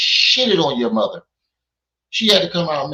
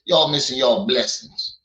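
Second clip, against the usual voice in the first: Rango impression; 4 semitones lower than usual. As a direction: drop down and drag it out a little like Rango. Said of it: "That's my Rango, that's my Rango impression".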